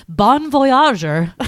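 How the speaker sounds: slow, high mock French accent; playful French accent, stretched slow. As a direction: drag out voyager in a hammed-up French accent. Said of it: "I'm so French".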